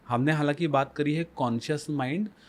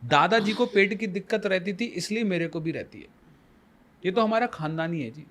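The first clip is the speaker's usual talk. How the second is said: mock family excuse; 5 semitones higher, 4 dB louder than usual. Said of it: "कभी आपने सुना है?".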